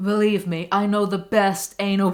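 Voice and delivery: badly faked boastful public figure; awful celebrity impression. Reader riffing on believe me again, hammy bad impression. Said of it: "that was an awful impression".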